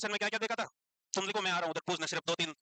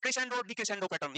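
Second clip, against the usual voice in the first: very slow, each term spelled out for the exam; dictating exam keywords slowly; slow, stressed key terms; much slower than usual. Shown as a demonstration. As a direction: linger on every word of the terms. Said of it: "ये दो word पे question आया हुआ है".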